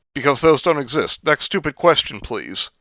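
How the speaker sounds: curt, mock-dismissive professor. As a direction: brush it off like a bored lecturer. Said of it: "some professor goes".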